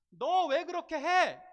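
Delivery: loud, high and slow angry rebuke; harsh scolding. Retold or imitated. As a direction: bark it at someone who did wrong. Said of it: "강하게 얘기하냐고요". (남을 다그치는 크고 높은 느린 호통)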